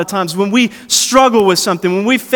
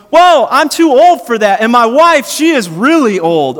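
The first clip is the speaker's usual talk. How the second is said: put-on louder, higher old-man protest; mock Abraham protest; 4 semitones higher, 4 dB louder than usual. Abraham balking at God's promise, mock protest. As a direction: play Abraham balking, lightly hammed. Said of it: "And he goes".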